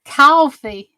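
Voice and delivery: southern-accented "Coffee.", drawn out and falling. Shown as a demonstration. Showing viewers how she says it, southern accent. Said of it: "My little southern accent".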